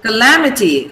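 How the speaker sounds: "Calamity" stressed on LAM, first syllable short; proper stress. Shown as a demonstration. Teacher correcting a student's "Calamity", LAM stressed. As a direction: hit LAM in "Calamity", then fall. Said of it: "pronounce it with the proper stress".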